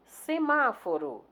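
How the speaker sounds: "Semáforo" drawn out, weight on "má"; stress on antepenultimate syllable. Shown as a demonstration. Teacher showing a proparoxytone, "Semáforo" stressed on "má". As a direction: say "Semáforo" slowly, leaning on "má". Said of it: "a sílaba tônica é a antepenúltima".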